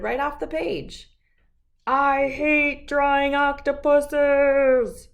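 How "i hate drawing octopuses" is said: loud, slow, higher cry of frustration; frustrated outburst. Acted. Arlo yelling about his octopus drawing. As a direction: stretch it out, fed up.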